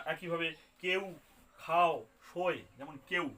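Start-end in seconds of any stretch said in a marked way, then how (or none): 1.6-2.6 খাও and শোয় spelled out slowly; slow careful words. Shown as a demonstration. Teacher slowly sounding out the diphthongs. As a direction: say খাও, শোয় slowly, stressing each vowel. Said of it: "এ আর উ আছে".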